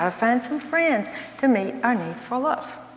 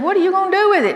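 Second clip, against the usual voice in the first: higher, louder disbelieving question; incredulous question; 8 semitones higher, 5 dB louder, much faster than usual. Retold or imitated. Wife questioning husband's sewing machine gift, incredulous. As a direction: ask it like the thing makes no sense.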